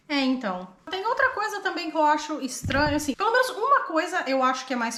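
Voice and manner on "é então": normal talking voice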